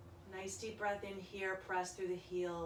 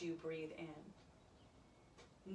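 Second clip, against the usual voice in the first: drawn out; 4 semitones lower, 12 dB quieter, much slower than usual. Acted. Cueing the inhale.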